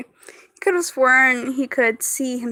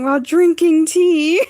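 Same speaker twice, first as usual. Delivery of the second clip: laughing; 5 semitones higher, 8 dB louder, slower than usual. Real, not acted. Reading chat, laughing.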